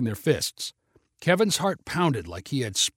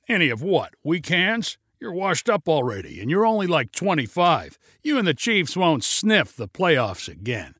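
jeering taunts; 2 semitones higher than usual. Acted. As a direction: rub it in with scorn. Kevin jeering at Levon.

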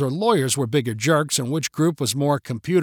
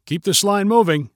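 higher, mildly stern intercom-style order; stern stormtrooper; 5 semitones higher, 4 dB louder than usual. Acted. Stormtrooper to park visitors in line, mildly stern. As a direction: play a guard trying to sound stern. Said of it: "sounded like it was coming through an intercom".

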